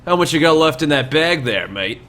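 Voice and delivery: lightly voiced greedy highwayman; prying bandit leader. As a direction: size up the traveller's purse. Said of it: "looks at you and he goes".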